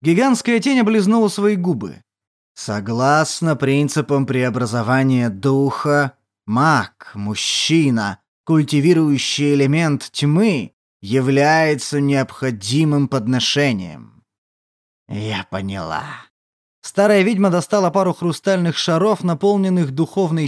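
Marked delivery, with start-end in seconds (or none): 2.5-14.2 lower, slow ancient demon voice. Acted. Demon states conditions. 15.1-16.0 put-on lower, softer old witch. Witch answers demon.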